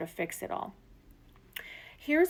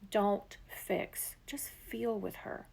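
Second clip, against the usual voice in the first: hushed, softer whisper, slowing down; intimate whisper; 3 dB quieter, much slower than usual. Real, not acted. Coach to listener on not fixing her, hushed whisper. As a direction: lean in and whisper the advice. Coach giving tender key advice.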